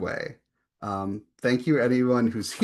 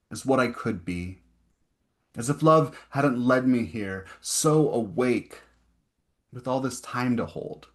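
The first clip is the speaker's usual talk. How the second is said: deliberate poem delivery with spaced phrases; poetry reading. Acted. Poet reading of a first vision at night, measured recital. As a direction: recite line by line, pausing between images. Resumes poem after a stumble.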